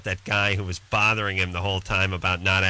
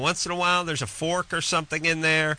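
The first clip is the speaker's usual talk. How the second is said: mock-exasperated rant; 7 semitones higher than usual. Real, not acted. Mock rant about useless microwaves.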